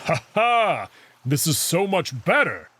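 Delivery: bursts out laughing, then cheers; happy laugh. Acted. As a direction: laugh with delight at the new stroke. Amicus delighted after learning swimming.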